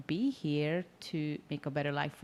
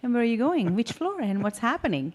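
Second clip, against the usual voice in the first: higher, elevated friendly small talk; customer service voice; 5 semitones higher, 3 dB louder than usual. Retold or imitated. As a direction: chat up a stranger in the elevator. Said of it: "But I love in an elevated".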